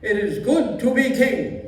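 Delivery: put-on old Yiddish grandpa accent; a creaky old Jewish man, kvetching.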